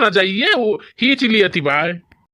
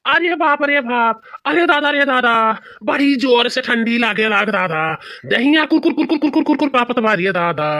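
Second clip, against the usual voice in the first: higher wailing moan, slowed at first; shivering wail; 4 semitones higher than usual. Acted. Husband shivering with no quilt, high wailing moan. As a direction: moan like teeth chattering from cold.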